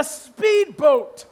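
"speedboat" drawn out slowly; stress on speedboat. Real, not acted. Comedian warns audience about the ride, stress on speedboat. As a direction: lean slowly on "speedboat" to flag it. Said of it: "I emphasize the speedboat thing".

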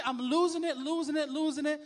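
mock rage. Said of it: "I'm just losing it".

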